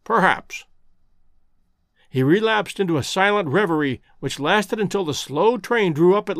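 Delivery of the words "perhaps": thoughtful repeat. A narrator's reading. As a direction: turn it over in his mind, drifting off. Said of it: "said Holmes, thoughtfully".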